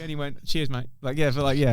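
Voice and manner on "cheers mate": put-on Italian accent. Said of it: "that kind of accent".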